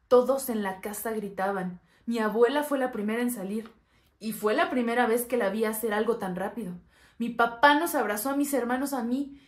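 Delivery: urgent retelling. Acted. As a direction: tell it with the house in uproar. Acted panic fleeing the house.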